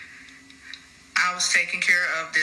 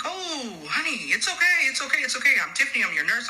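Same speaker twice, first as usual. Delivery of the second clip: calm reassurance; 8 semitones higher than usual. Retold or imitated. Nurse to screaming patient at the bedside, calm high-pitched reassurance. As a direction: soothe a frightened patient in a high coaxing voice. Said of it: "I'm calmly talking to her".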